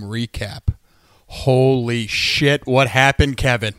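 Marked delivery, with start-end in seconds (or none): 1.3-3.7 loud shocked outburst. Real, not acted. Shocked post-game outburst.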